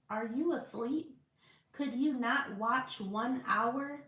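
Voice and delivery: measured, emphatic Bible read-aloud; scripture reading. Acted. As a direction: read the verses out with firm stresses.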